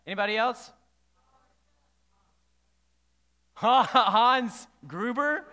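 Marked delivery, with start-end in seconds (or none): 3.6-5.4 put-on drawn-out, loud accent like a movie villain's; Hans Gruber's accent. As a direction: draw out the name in a villain's accent. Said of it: "Yes, with the accent".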